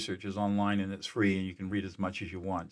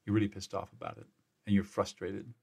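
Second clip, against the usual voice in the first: gentle empathic reflection. Shown as a demonstration. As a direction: talk them gently through their grief, pausing between feelings. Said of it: "And I say something like this".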